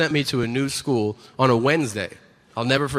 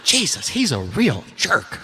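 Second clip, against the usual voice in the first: mock disapproval. Imitates disapproving audience members.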